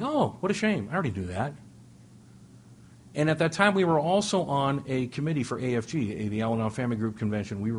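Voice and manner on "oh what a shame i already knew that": high sarcastic "oh, what a shame"; mock sarcasm. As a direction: feign pity, then go flat. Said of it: "I'm like".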